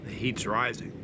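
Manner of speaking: talking with a burning mouth; mouth on fire. Real, not acted. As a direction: mouth on fire from hot pepper. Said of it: "My mouth is on fire".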